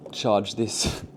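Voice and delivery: ordinary talk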